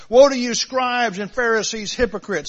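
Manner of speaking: woe punched loud, then falling on hypocrites; loud, indignant rebuke. Shown as a demonstration. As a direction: scold them from the pulpit. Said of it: "some inflection in his voice".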